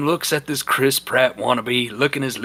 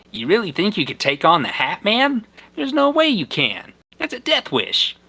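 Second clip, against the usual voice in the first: worried warning; 7 semitones higher than usual. Acted. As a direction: pitch jumps much higher, panicky. Rob warns Norm, voiced.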